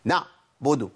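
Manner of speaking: "نعبد" with the ع cut off hard; over-tense ع. Shown as a demonstration. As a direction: squeeze and stop the ع in "نعبد". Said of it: "ما أعملش شدة".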